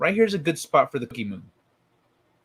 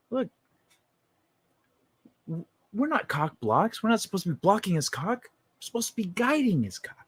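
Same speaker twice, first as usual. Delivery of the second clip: hushed urging cop; 6 semitones higher, 4 dB quieter than usual. Retold or imitated. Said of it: "the other cop goes".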